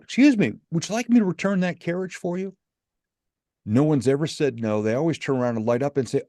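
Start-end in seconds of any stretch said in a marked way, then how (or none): 0.0-2.5 shouted offer of help; friendly shout. Retold or imitated. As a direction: call out high and bright across a parking lot. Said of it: "I'll shout out".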